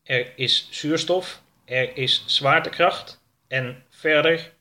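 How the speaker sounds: slow, measured computer voice; the ship's computer reads out its scan; spaceship computer. Acted. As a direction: report each finding slowly and deliberately. Spaceship computer reports findings.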